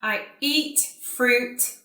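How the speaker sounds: careful, spaced-out words with pauses between phrases; repeat-after-me model. Shown as a demonstration. Teacher saying sentences for students to repeat, carefully enunciated. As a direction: enunciate each word for learners to copy. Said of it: "like you to repeat after me".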